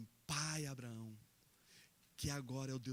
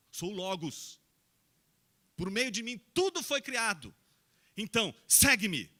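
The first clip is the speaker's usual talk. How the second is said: voice of Jesus; 9 semitones higher, 14 dB louder than usual. Acted. Jesus speaking in the story.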